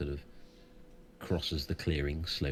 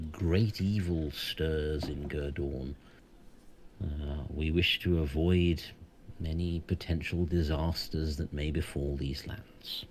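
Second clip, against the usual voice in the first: solemn, foreboding centaur; wise centaur voice; 2 semitones higher than usual. Acted. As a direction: warn them gravely, like a seer. GM holds the centaur's voice.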